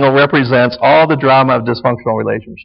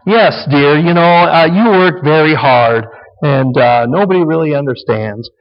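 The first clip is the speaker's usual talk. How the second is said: soothing wife. Acted. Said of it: "Now she's rescuing him".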